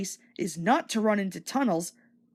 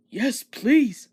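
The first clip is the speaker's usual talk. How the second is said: delighted; 2 semitones higher, 5 dB louder than usual. Acted. Henry delighted.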